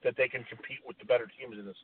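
garbled, breaking-up phone line; talking over a bad connection. Real, not acted. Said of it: "Rich seems to have a really bad connection".

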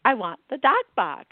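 Boston mother spelling it out, the last letters slow; Boston accent, slow letter-by-letter spelling; spelled in Boston accent. Retold or imitated. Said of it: "my mother goes".

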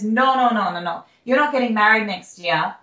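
lightly put-on Russian accent, insistent; a hint of Russian psychic, waving it off. Psychic insisting she won't marry, light Russian accent. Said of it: "I'll stop talking in the accent".

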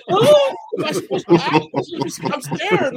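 high, laughing startled reply; laughing mock panic. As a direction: squeak it out half-laughing, caught off guard. Recalling his startled reaction.

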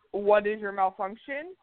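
slow, exasperated doll line; annoyed doll tone. Pretend. A doll button voicing its owner's exasperation, slow and annoyed. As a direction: talk down to someone who asked a stupid question. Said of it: "in a tone".

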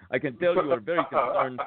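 lightly voiced doctor, a touch put-on; doctor impression. Quoting the doctor who treated the dog bite, lightly voiced. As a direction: mimic the doctor's calm bedside manner. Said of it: "So he was like".

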